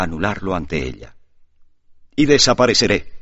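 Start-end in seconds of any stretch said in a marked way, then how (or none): 2.2-3.1 en éxtasis. A narrator's reading. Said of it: "profirió de repente, en una especie de éxtasis".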